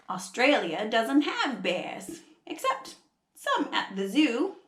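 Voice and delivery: attempted Australian storybook voice; Australian accent. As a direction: read it in a put-on Aussie accent. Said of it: "trying really hard to do an Australian accent".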